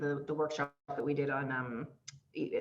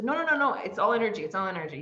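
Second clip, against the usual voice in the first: insistent; 4 semitones higher than usual. Retold or imitated. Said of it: "I'm like".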